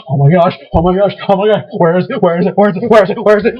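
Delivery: mildly acted rising panic, words tumbling out; freaking out. Searching the room for lost stuff, mock freaking out. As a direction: repeat it in a breathless-sounding mock fluster. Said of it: "I start freaking out".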